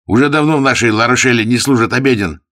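loud, high furious shout; shouting soldier. A narrator's reading. Huguenot soldier shoving the monk out, shouting. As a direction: roar him out of the room. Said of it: "крича".

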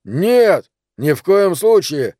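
hasty refusal. Acted. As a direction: refuse at once, too eagerly. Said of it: "с непристойной поспешностью возразил".

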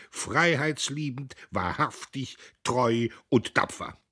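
strained oration. A narrator's reading. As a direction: push the speech over the noise. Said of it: "schrie er angestrengt".

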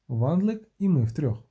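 usual speaking voice

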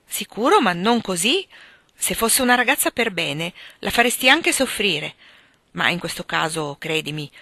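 emphatic, lightly acted mother's lecture; serious scolding. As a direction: reproach a son with some heat. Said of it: "una ramanzina piuttosto seria".

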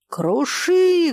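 high roaring shout. A narrator's reading. Jumping up, roaring at his friend, loud roar. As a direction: roar it out wildly. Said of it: "взревел Фома".

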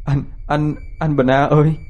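high, hammed-up solemn voice, hand on heart; mock-solemn. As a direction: fake earnest plea, stifling a laugh. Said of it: "giả bộ nghiêm chỉnh, nhưng thật ra đang cố nén cười".

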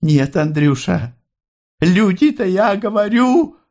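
mother presses her point, high; mother's voice. A narrator's reading. Mother argues to Andrey. (мать настаивает, очень высоким голосом)

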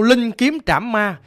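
slow spell line; incantation. A narrator's reading. Master Sáu moves to the next line, slow incantation. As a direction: intone it deliberately, each word drawn out. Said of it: "Tới câu tiếp theo".

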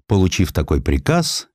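ordinary delivery

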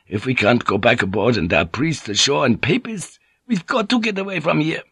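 lightly voiced worried sailor, pitch climbing at the end; anxious crewman. Frightened crewman urging escape.

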